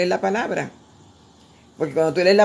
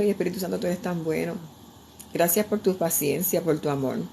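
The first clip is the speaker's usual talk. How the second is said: soft prayer; 5 dB quieter than usual. Retold or imitated. Quoting her own prayer.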